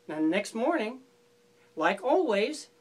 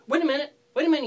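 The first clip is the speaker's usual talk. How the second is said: excited; 5 semitones higher, 5 dB louder, much faster than usual. Acted. Bear interrupts, excited by bite.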